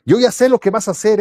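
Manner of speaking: lightly mocking I-know-you tone; mock humiliating. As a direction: imitate someone showing up a friend. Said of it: "no para humillarlo".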